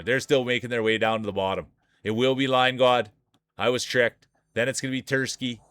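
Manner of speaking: running sportscaster call of the finishers; mock sportscaster listing the field; play-by-play call. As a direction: reel off the placings like a race announcer. Calls marble race play-by-play.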